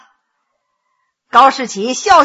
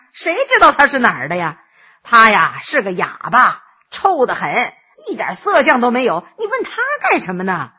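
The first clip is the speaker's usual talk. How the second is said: lightly voiced scoffing scholar; a touch of contempt; scornful Gao; 3 semitones lower than usual. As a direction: Gao scoffing at the beggar girl.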